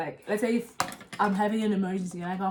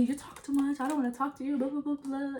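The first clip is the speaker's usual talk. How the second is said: mocking sister; 5 semitones higher than usual. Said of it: "She tells me".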